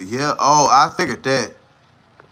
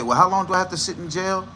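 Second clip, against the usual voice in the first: fast mock Scar; 3 dB quieter, faster than usual. Acting Scar asking judge.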